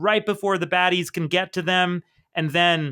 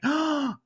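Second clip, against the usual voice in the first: shocked gasp; 7 semitones higher than usual. Retold or imitated. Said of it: "everyone's faces are all shocked".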